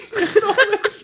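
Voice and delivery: sudden high, loud laugh; burst of high laughter. Real, not acted. Reacting to feet story.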